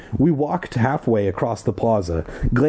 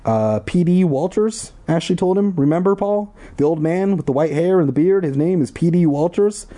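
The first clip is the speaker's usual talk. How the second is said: put-on high girl voice; 8 semitones higher than usual.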